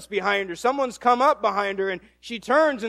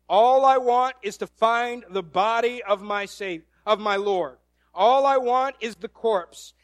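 Mary's determination; 6 dB louder than usual. Acted. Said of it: "This is Mary's mindset".

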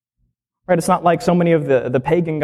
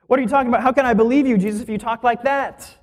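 raised pitch, disbelieving challenge; lightly voiced doubter, higher; incredulous skeptic; 6 semitones higher, faster than usual. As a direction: scoff at Jesus's words in mock disbelief. Voicing skeptical listeners.

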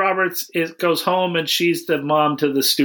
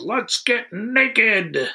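slow, drawn-out mock yell; mild mock yell; 6 semitones higher, much slower than usual. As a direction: stretch out a lazy fake shout. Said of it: "somebody yells".

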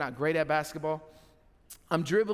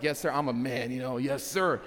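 deeper manly voice; 5 semitones lower than usual. Retold or imitated. Grown son answering his father on the phone, deep manly voice. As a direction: pitch dropped low to sound like a grown man. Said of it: "And I brought the voice down".

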